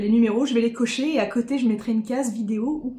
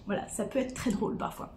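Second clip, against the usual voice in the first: whispering; 10 dB quieter than usual. Real, not acted. Laughing aside, trailing off.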